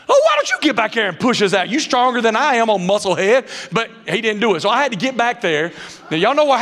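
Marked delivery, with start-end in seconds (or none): 0.1-3.7 sarcastic retort. Retold or imitated.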